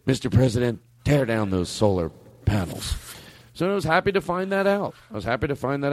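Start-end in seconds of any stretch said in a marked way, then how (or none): 0.1-2.9 mock grand proclamation. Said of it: "give me some reverb".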